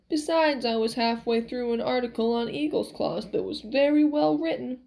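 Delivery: lightly voiced grumbling old man; a touch of stubborn old-man bluster; Max, cranky miracle man, reluctant. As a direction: grumble through the excuses.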